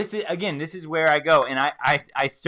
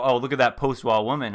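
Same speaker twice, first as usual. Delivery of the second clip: scornful; faster than usual. Retold or imitated. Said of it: "I don't go".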